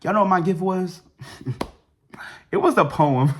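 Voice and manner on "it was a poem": laughing through the words at the letdown. Real, not acted. Telling viewers the gift, laughing in disbelief. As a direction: say it while breaking into laughter.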